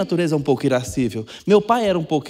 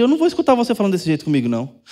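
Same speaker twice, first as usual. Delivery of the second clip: mock stern parent; 2 semitones higher, much faster than usual. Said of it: "A gente pode falar pro filho".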